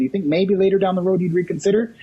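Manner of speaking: casual afterthought while backing away. Shown as a demonstration. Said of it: "I'm doing this physically".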